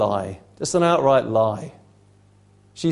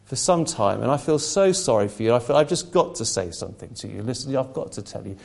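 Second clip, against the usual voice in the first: serpent tempting; 3 semitones higher than usual. Retold or imitated. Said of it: "he comes and he says".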